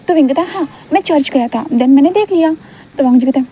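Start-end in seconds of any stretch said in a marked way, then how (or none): 0.5-2.6 put-on high little-boy voice, complaining about study; childlike Wing. Wing grumbles to Gaga about studying, high child voice. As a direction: play the small boy grumbling to his elder.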